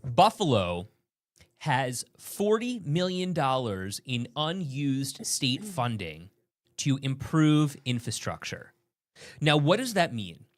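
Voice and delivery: measured, slow news delivery; news read. Acted. Anchor reading a story about unused city funds. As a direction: present it like a local news report.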